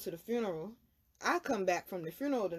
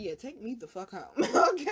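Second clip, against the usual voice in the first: laughing; 5 dB louder than usual. Retold or imitated. Retelling her request to go home.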